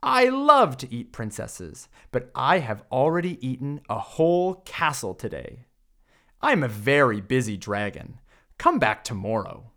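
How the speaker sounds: a busy dragon brushing off a princess; grumpy dragon. Acted. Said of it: "The dragon stuck out his nose from the door and said".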